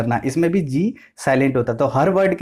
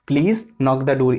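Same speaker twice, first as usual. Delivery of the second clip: slow example; much slower than usual. Shown as a demonstration. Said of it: "यही please से हमारा sentence बन गया".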